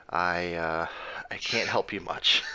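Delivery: comic whispered aside; whispering. Real, not acted. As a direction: drop to a whisper for the joke. Joking aside about Bigfoot lore.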